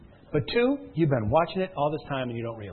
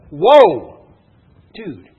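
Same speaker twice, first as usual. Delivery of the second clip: amazed whoa; 4 semitones higher, 16 dB louder than usual. Retold or imitated. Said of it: "She's like".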